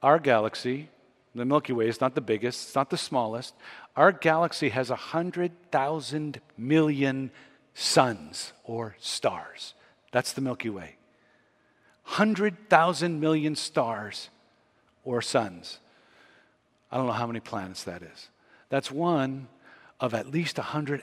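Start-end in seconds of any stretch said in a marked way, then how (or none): 4.0-15.8 slow, weighty counting of the stars; slow for awe. Real, not acted. Preacher to congregation, slowing down in awe at the numbers. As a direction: let the number sink in, slowly. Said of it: "let me put some perspective on that".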